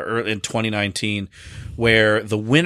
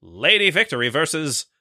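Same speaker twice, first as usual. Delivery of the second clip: mid-Atlantic announcer; 4 semitones higher than usual. Pretend. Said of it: "a stiff mid-Atlantic accent".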